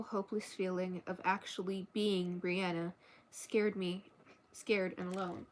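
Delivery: even, measured novel reading; story narration. A narrator's reading. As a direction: read the story aloud evenly. Reads a novel aloud.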